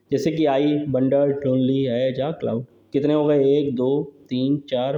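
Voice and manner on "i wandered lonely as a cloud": "I wandered lonely as a cloud" slow and lower, syllable by syllable; counting syllables. Shown as a demonstration. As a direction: read it out slowly for counting. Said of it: "count कर लीजिए".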